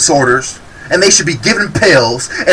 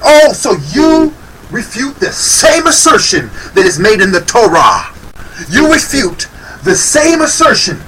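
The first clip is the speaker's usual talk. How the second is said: sarcastic; 2 semitones higher than usual. Real, not acted. Mocking the woman's claim.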